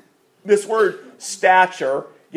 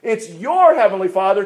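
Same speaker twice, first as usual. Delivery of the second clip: "your" raised and leaned on; stress on YOUR; 2 semitones higher than usual. Shown as a demonstration. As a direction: make it personal by stressing "your". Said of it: "it's a personalized to us".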